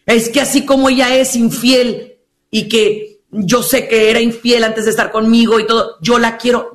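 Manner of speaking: mock sappy wife. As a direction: drag it out, mock-tender. Mocking a devoted wife.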